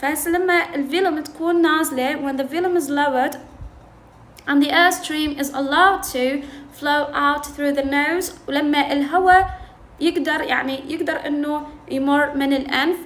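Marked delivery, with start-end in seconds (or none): 2.2-8.3 slow, careful read of these are called affricates; reading the textbook aloud. Shown as a demonstration. Teacher reading the textbook to students, slow and careful. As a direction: read the English line slowly for the class. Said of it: "فيقول".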